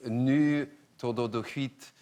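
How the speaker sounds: halting, clumsy Swedish; attempted Swedish. Shown as a demonstration. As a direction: have a go at a Swedish phrase, badly. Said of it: "I'm not gonna get this right".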